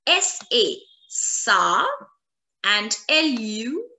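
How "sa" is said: SA as a clear open syllable; syllable demo. Shown as a demonstration. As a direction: sound out SA on its own. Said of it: "the pronunciation we've already done".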